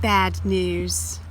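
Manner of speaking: low glum bad news; sad. Shown as a demonstration. Teacher reading to children, gloomy. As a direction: let it sink, disappointed.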